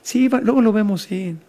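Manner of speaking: placating, noncommittal mock agreement; lightly acted humoring; dismissive brush-off. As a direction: wave them off while pretending to agree. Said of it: "Te voy dando el avión".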